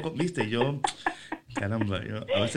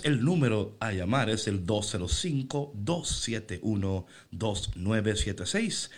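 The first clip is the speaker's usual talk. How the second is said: toy robot voice; 4 semitones lower than usual. Shown as a demonstration. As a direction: read the number like an automated phone menu. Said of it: "Yo soy en esta mañana esa voz".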